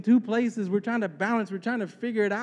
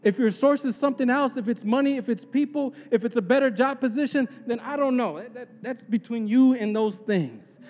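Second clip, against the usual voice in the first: impassioned preaching; 5 semitones higher than usual. Real, not acted. Preacher exhorts congregation with raised voice.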